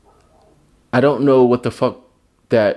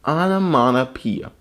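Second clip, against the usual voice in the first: savoring the word; 3 semitones higher than usual. Shown as a demonstration. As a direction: relish each syllable of "Onomatopoeia". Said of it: "That's a fun word".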